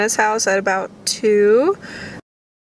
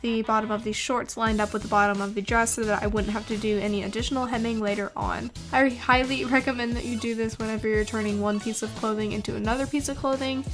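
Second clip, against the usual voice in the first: soft, even tutorial voiceover; calm how-to narration over music; 10 dB quieter than usual. Acted.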